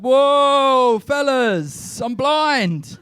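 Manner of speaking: high, loud startled plea; mock alarm. Comic pleading with two muggers, mock alarmed. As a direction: throw the hands up and pretend to be helpless. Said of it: "I said".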